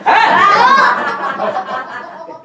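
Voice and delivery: surprised yelp. Real, not acted. Picture suddenly seems to talk.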